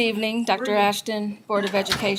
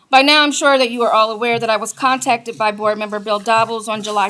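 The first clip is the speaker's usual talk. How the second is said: teacher voice. Real, not acted. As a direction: project like a teacher to the room. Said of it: "I'll use my teacher voice".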